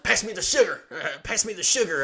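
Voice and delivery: mock mom. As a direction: play mom asking weakly but urgently. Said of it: "Mom's like".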